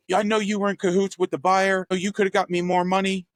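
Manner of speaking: high-pitched imitation of an accusing client; mock berating. Angry seller accusing his realtor of cahoots, mock berating. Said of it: "he started berating me".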